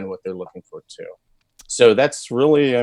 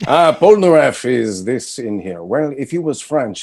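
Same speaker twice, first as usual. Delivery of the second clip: higher-pitched Polnareff trying on a French accent; 3 semitones higher, 3 dB louder than usual. Shown as a demonstration. Actor shows fans a French Polnareff, French accent. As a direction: put on a rough French accent. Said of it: "what Polnareff would sound like if he was French".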